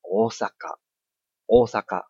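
大阪 with おお held long; Japanese long vowel. Shown as a demonstration. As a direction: stretch 大阪 slowly. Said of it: "就是".

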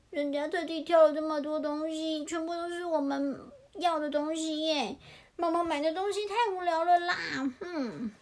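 pouty chick complaint with a huff; lightly acted childish sulk; sulking little chick. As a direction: whine mildly like a thwarted child.

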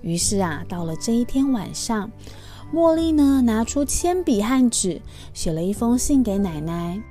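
gentle, lively storybook voice; reading to a toddler. Acted. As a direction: read it sweetly to little kids.

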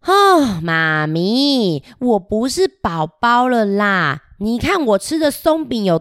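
indignant protest. Acted. Child protests to mom.

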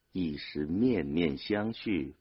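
ordinary delivery, nothing marked

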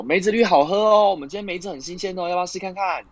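high, eager sales pitch, fading; drink shop clerk. Acted. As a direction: upsell like a cheerful clerk. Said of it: "就跟你讲说什么".

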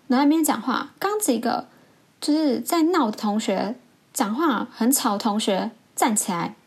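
mild retold rant; retold teacher's yelling. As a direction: imitate a hurt, exploding teacher without a full shout. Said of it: "整个就是用吼的那一种".

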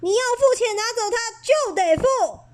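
high, blaring bellow; trumpet like an elephant. Acted. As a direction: blare it out like an elephant. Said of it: "收银员像只大象大叫".

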